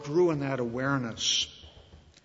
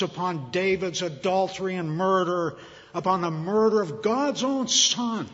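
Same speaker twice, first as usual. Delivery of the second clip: building preaching fervor. Real, not acted. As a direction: pile each sin on, growing fiercer.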